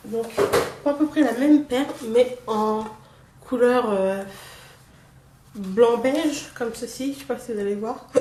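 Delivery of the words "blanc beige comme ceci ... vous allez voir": holding back hiccups mid-sentence; talking through hiccups; suppressing hiccups. Real, not acted. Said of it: "Pardon, j'ai le hoquet".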